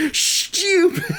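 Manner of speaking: "Stupid" said high, the "st" turned into "sh-ch"; "Stupid" as "schtupid". Shown as a demonstration. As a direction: laugh out "Stupid" with a "ch" sound after the s. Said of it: "make the S and the T like a S and then a C H".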